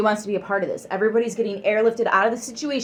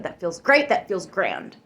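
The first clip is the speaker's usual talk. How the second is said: excited lift; 3 dB louder than usual. Real, not acted. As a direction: lift it up with joy. Repeated affirmation build.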